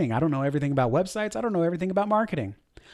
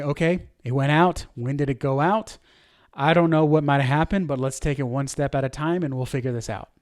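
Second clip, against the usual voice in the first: calm leader; 3 semitones lower than usual. Shown as a demonstration. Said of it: "You hear the difference there?".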